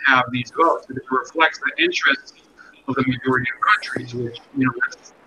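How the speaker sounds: muffled, as if under water; underwater sound. Real, not acted. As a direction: voice muffled through a bad mic. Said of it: "you've gone back underwater again".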